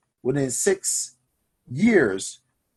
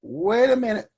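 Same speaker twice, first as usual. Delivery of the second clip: loud hold-up call; 3 semitones higher than usual. Pretend. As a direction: call out HOLD UP loud and high, then settle. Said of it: "You're gonna say".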